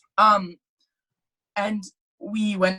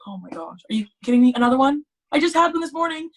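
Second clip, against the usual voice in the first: higher, louder mock protest; retold indignant disbelief; 5 semitones higher, 4 dB louder, faster than usual. Patient told of another blood test, high indignant protest. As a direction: act exasperated, pitch climbing.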